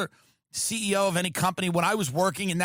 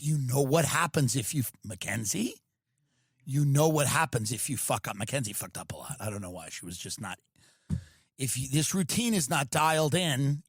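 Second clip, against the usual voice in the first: stern dance coach; 6 semitones lower than usual. Retold or imitated. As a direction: menace the kids in a low voice. Voicing Abby Lee Miller.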